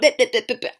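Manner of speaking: rapid-fire "blip blip blip" imitating nagging; mock nagging noise. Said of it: "It was just like".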